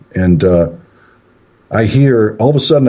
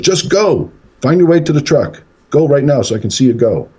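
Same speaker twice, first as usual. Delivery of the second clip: higher, urgent mock shout; retold yell; 6 semitones higher than usual. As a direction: order him off, acted without full volume. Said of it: "I yell to Jeff".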